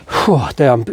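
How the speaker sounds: out of breath from effort; breathless huff after straining; huffing and puffing. Real, not acted. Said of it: "huffing and puffing".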